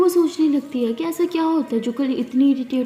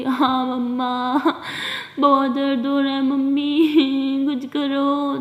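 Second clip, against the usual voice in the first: whiny pain; much slower than usual. Acted. Daughter whining about period pain.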